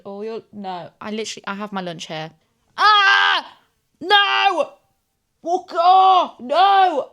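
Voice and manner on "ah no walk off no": high, loud shrieking at the fly; real shrieks at a fly; panicked shrieks. Real, not acted. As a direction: shoo it off in panic. Fly lands on lunch.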